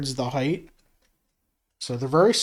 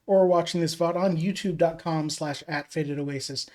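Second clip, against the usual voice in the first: echoey room mic; mic set far off, roomy echo; big hall echo. Real, not acted. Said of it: "Sorry for the echoey mic today".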